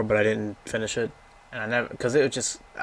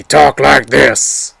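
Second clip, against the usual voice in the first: loud, slow, booming luchador bellow; big hammed-up wrestler shout; Strong Bad voice; 3 semitones higher, 16 dB louder, much slower than usual. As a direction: roar it like a masked wrestler on the mic. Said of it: "he liked death metal".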